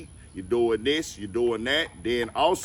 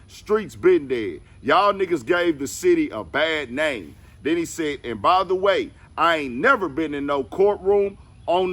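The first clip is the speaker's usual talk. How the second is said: emphatic, raised-pitch quoting voice; forceful statement read-out; 4 semitones higher, 4 dB louder than usual. Retold or imitated. Reading out a rapper's rebuttal to the rat narrative, forcefully. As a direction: read the rebuttal out higher and louder.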